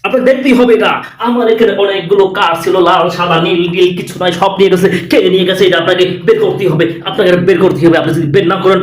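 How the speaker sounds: a lightly voiced, overexcited TV reporter; mock news reporter. Parody Republic Bangla reporter hyping the viewers, mildly overexcited. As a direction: ham up a breathless news anchor hyping a story. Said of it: "Republic বাংলার সাংবাদিকের স্টাইলটা আমি দেখালাম".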